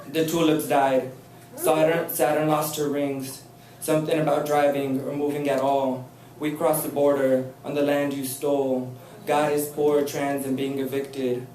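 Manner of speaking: performing a poem for the audience; poetry reading. Acted. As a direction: deliver each line with weight. Reads her next poem.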